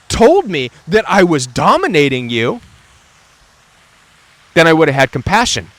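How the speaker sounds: lightly voiced abuser playing innocent; mock narcissist voice. Imitating the narcissist who blames the victim, whiny. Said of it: "is really what they're saying".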